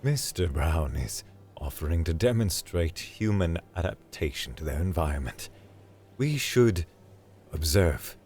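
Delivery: measured, formal alien professor; lightly voiced stiff academic. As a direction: speak with careful, formal restraint.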